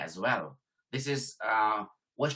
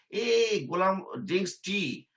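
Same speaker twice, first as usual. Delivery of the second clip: supervisor voice; 4 semitones higher than usual. Retold or imitated. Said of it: "Then my supervisor says".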